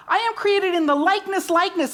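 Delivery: preacher repeating likeness for weight; emphasis on likeness. Shown as a demonstration. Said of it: "See, it's emphasis".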